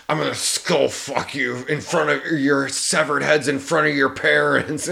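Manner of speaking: spitty, gurgling villain voice; wet grizzly voice. Retold or imitated. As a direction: talk through a mouthful of spit. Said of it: "he's got a real wet voice in this".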